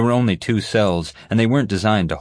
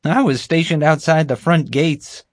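much higher, eager voice; happy, self-pleased guard; 10 semitones higher, 4 dB louder than usual. Acted. Bumbling guard relating his catch to the group, happily. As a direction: tell it proudly in a high-pitched guard voice. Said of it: "happily related the story".

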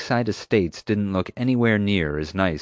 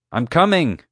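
loud high yell through the door; yelling back; 8 semitones higher, 5 dB louder than usual. A narrator's reading. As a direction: shout it back impatiently. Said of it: "I yelled back".

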